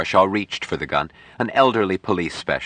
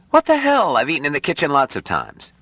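high, startled outburst; shocked protest; 9 semitones higher than usual. Acted. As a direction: blurt it out, stunned. Fired servant protests in shock.

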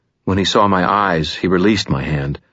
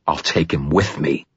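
through gritted teeth. Acted. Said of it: "between gritted teeth".

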